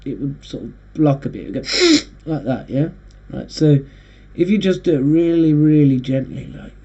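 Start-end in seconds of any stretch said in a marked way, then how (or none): 2.3-2.9 hard sniff. Shown as a demonstration. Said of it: "if you were to breathe really hard through your nose".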